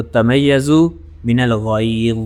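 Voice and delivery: تمیزو من الغیظ very slow, with a clear ز; slow recitation. Shown as a demonstration. Teacher recites for students, slow and careful. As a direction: draw out تمیزو and make its ز clear. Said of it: "اب یہ دیکھیں تمیزو".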